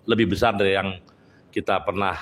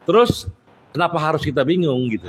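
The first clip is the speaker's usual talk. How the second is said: higher, rising rousing appeal; fiery speech; 6 semitones higher than usual. Real, not acted. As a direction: fire up the crowd. Rousing speech to union members.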